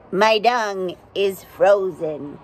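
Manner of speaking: slow, lightly voiced glum beetle; dung beetle voice. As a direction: grumble like a disappointed beetle.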